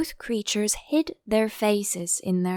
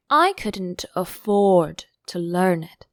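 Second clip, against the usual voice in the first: sighing; 5 dB louder, slower than usual. Acted. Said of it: "with a sigh".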